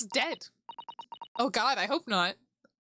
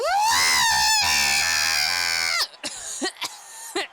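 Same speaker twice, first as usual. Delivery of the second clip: long loud shouted victory laugh; whooping laugh; 7 dB louder than usual. Real, not acted. Streamer celebrating the not guilty verdict, loud whooping laugh. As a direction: laugh and cheer at full volume.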